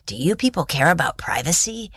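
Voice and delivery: raspy, hushed New York voice; rough New York accent, almost whispered; scratchy New York accent. Retold or imitated. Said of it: "he said in this kind of very scratchy, uh, New York accent".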